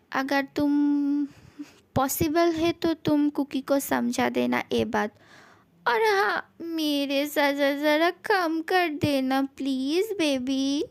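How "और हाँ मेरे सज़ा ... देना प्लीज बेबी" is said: tearful plea. Acted. Begging to reduce punishment.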